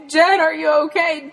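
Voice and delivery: high, loud calling into the brush. Retold or imitated. Dad searching the woods for Jen, calling out in a high loud shout. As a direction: shout as if hunting for a lost child.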